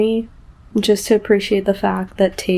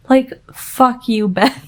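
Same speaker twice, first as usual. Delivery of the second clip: angry curse; 2 semitones higher, 4 dB louder, slower than usual. Real, not acted. Angry at the character.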